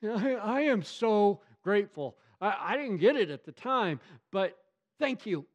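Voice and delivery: high, earnest thank-you; grateful thanks. Retold or imitated. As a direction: pour out gratitude to God. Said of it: "you're like".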